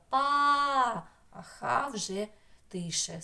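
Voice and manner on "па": ПА sung out high and long; stressed syllable. Shown as a demonstration. Teacher showing where the voice's force falls, ПА held out. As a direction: hold ПА strongly on a raised note. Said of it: "На третій склад".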